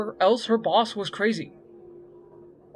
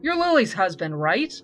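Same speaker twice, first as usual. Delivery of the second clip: gruff; 4 semitones higher, 6 dB louder than usual. A narrator's reading. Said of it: "she said gruffly".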